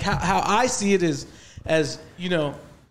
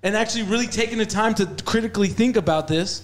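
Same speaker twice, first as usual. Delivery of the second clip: measured, carefully enunciated white-people voice; earnest talking-to-white-people voice; 2 semitones higher than usual. Real, not acted. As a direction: talk properly, as if to white people. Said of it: "You can't say it in that voice".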